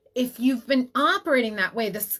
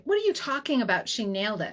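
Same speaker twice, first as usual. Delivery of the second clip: mild mock shock; faster than usual. Retelling her reply to her laughing husband, mildly shocked. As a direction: throw it back in retold disbelief. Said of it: "I was sitting there shocked".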